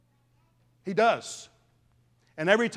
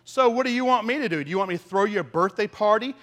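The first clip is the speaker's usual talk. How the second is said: sarcastic tone; 3 semitones higher, 4 dB louder than usual. Retold or imitated. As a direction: sneer back at her friend's birthday wish. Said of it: "in a rather sarcastic tone".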